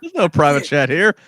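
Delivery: talking around a pen; words muffled by a pen between teeth; pen in mouth. Real, not acted. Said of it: "I put my pen in my mouth".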